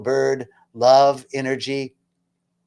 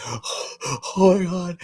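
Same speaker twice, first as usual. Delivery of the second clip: crying out; 4 semitones higher, much slower than usual. Retold or imitated. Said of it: "and crying".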